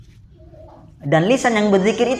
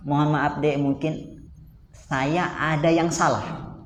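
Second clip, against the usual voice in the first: apologetic husband; 2 semitones lower, 5 dB quieter, slower than usual. Acted. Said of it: "Makanya kita katakan".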